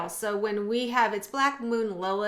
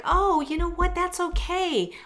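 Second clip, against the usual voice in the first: gentle self-encouragement; 9 semitones higher, 3 dB louder than usual. Retold or imitated. Voices gentle self-forgiveness.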